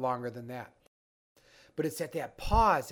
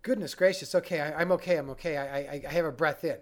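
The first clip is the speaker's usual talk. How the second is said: acted nervous system; 3 dB louder than usual. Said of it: "The nervous system goes".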